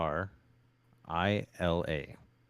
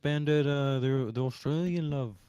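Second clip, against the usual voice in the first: fake Australian accent; 7 semitones higher, 6 dB louder than usual. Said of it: "That's not how Australians talk".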